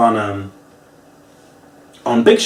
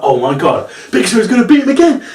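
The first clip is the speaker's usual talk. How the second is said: laughing excited gasp; gleeful disbelief; 7 semitones higher than usual. Retold or imitated. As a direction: cackle with delight as you realise. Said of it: "and I'm like".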